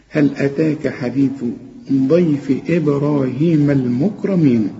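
ضيف with a full heavy ض, measured and slow; slow Quran recitation. Shown as a demonstration. Teacher to student: slow measured recitation of the verse. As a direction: recite it slowly like tajweed. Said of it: "الضاد مفخمة".

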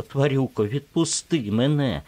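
high, loud cry of відпусти мене; pleading shout. Acted. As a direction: yell відпусти мене at him, desperate. She screams to be released. (відчайдушний крик «відпусти мене»)

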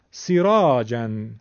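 سیراجن with brief "si", long "raa"; short kasra. Shown as a demonstration. Teacher showing kasra, short "si" in سیراجن. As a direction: keep the first "i" of سیراجن short. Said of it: "کسره است دیگه".

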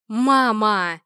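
loud, pleading cry of Mama. Acted. Son begging his mother to stop, loud pleading cry. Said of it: "взмолился Алекс".

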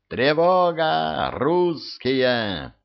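high, drawn-out cry of alarm; narrator's restrained version of a desperate scream; desperate dying cry. A narrator's reading. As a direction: stretch each word into a high alarm call. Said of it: "закричал ещё страшнее, отчаянным, предсмертным криком".

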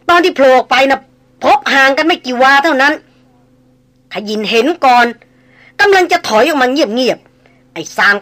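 rushed, excited report from a frightened hunter; รายงานตื่นเต้น. Acted. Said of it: "ขยินรายงานเร็วปรือ". (รายงานรีบร้อน เสียงสูงดังขึ้น)

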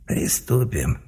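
soft snide inner voice; a mocking voice in his head. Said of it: "согласился ехидный голос".

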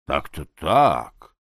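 plain reading voice

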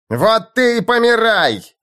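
выше и громче, яростный рёв; рявкни на лучника во всю глотку. Acted. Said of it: "взревел Мартин". (Мартин ревёт на лучника)

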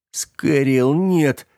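high pleading shout; desperate cry. Acted. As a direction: cry out against his plan. Джером отчаянно протестует. (отчаянный крик)

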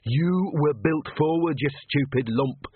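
exasperated inner scream. A narrator's reading. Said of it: "Perdita screamed".

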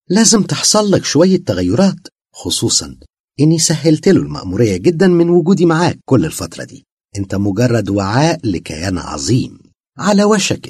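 high, loud, mocking possessed woman; eerie possessed voice. A narrator's reading. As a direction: speak as the jinn inside her, sweetly menacing. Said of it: "بأسلوب عجيب". (صوت ممسوس مخيف)

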